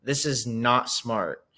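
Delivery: slow, pointed tattletale voice; lightly voiced snitching to mom; tattling. Player tattling to Kylie's mom, slow and pointed. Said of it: "tell Kylie's mom, like".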